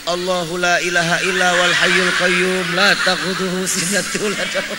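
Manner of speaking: a supposed whisper recited loud and low; mock whisper. Preacher jokingly whispers a verse to a woman, loudly. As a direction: boom the verse into the mic as a joke whisper. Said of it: "Lah kan gua bisikin".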